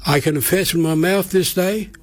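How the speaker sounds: prayer said in short phrases with long pauses; slow prayer. Shown as a demonstration. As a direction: lead a prayer phrase by phrase, leaving room to repeat. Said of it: "and I'll say it slow".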